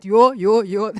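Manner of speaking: loud playful yo yo yo; playful crowd cheer; hyped audience call. Pretend. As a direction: shout it like a rowdy crowd. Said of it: "They would all say".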